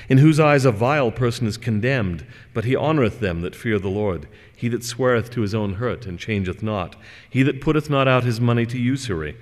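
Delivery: measured, solemn Psalm reading with lifted pitch; scripture reading. Acted. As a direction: read the Psalm like a pulpit reading. Reads Psalm fifteen aloud.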